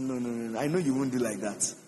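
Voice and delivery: low, hushed imitation of gentle pleading; acted soft, low appeal; quiet pleading. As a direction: softly talk someone round, voice dropped. Moses gently pleads with God.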